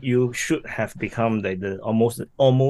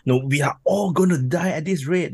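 mock doom; 6 semitones higher than usual.

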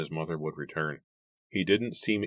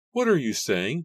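demanding; 10 semitones higher, 5 dB louder than usual. A narrator's reading. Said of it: "Mary demanded".

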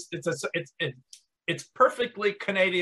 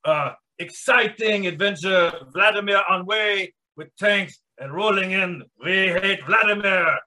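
bad Russian accent. Podcast host opening the show in a bad Russian accent. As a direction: play a broken-English Russian podcast host. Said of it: "hold down just a bad, uh, Russian accent".

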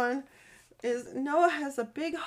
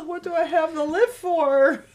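put-on higher, melodramatic child's lament; mock despair; 4 semitones higher, 4 dB louder than usual. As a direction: wail it in playful exaggeration.

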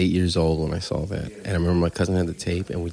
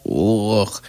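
disgusted groan. Retold or imitated. Audience recoils as he passes.

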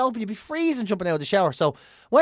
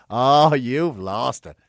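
giggling to myself; 7 semitones lower, much slower than usual. Retold or imitated. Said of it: "giggling to myself going".

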